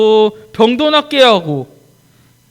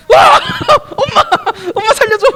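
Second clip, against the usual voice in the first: panicked cry for help; 5 dB louder than usual. Acted. Peter sinking, calls for help.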